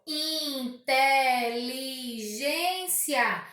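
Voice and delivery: INTELIGÊNCIA lentíssimo, IN-TE-LI-GÊN-CIA; separado em sílabas. Shown as a demonstration. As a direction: diga "Inteligência" em cinco sílabas esticadas. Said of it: "que possui cinco sílabas". (silabado devagar, IN... TE... LI... GÊN... CIA)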